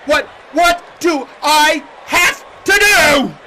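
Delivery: slow, high shout, word by word; exasperated shout. Acted. Beaten wrestler demanding to be taken seriously, slow exasperated shouting. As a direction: hammer out each word, stretching the final DO.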